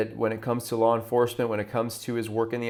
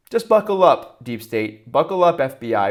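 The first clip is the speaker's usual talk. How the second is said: taunting them with a raised voice; excited taunt; 2 semitones higher, 5 dB louder than usual. Real, not acted. Host taunts opponents, exclaiming.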